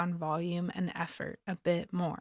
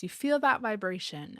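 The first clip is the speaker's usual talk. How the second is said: ordinary talk, nothing marked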